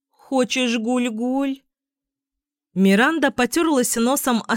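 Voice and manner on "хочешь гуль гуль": put-on high, slow baby talk to a puppy; cutesy baby talk. A narrator's reading. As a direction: lisp sweetly like talking to a baby. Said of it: "засюсюкала".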